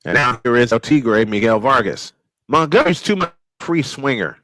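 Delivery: radio baseball announcer calling the game; steady play-by-play announcer voice. Acted. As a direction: call it like a ballpark broadcaster.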